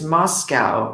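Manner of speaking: Moscow ending in -cow, rhyming with "now"; Russian-city pronunciation. Shown as a demonstration. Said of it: "if we say the city in Russia".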